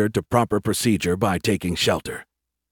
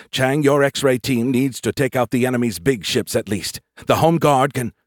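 higher, insistent commanding voice; commander, urgent order; 4 semitones higher, 3 dB louder than usual. Acted. Commander ordering X-ray team to strike, urgent. Brooke gives orders to Chang.

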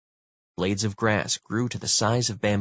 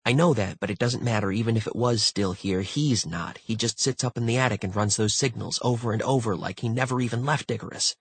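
lightly voiced insistent character; a hint of agitated rambling; agitated crewmate; 3 semitones higher than usual. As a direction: press the point in one long run. Voices Sengupta in story.

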